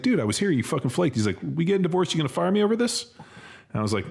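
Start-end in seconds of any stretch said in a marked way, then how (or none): 0.0-1.2 mock angry yell. Retells scolding Mike for flaking. 1.4-3.1 high, squeaky retold protest; mock incredulous. Mike's reply to the scolding.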